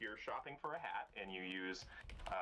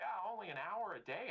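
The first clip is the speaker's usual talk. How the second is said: mock dismissive; 11 semitones higher than usual. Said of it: "just like".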